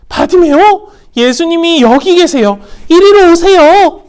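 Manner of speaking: high, loud beckoning; guiding call. Acted. People guiding blind Bartimaeus to Jesus, loud beckoning. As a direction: call him over eagerly.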